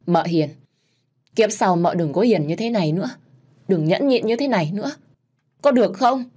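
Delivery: begging her gently not to suffer again; pleading through tears. Acted. Narrator pleads with dying aunt. (giọng nghẹn ngào van nài)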